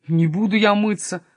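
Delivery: mildly defiant blurt. Acted. Kasper refusing Sofia's order to wash, mildly blurted. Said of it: "выпалил Каспер".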